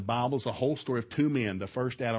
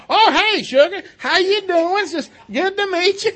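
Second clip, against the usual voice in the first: very high, loud, hammed-up greeting; mock a mom squealing hello mid-wrestle; hollering mom; 11 dB louder than usual. Mom greeting son's date from the floor, hammed-up high holler.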